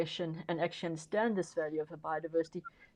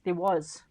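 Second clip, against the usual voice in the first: "was" pushed a touch louder; stress on was; 3 dB louder than usual. Shown as a demonstration. Explaining shark diving tourism, stressing it is over. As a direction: lean on "was" to mark it's gone. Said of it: "I emphasize the word was".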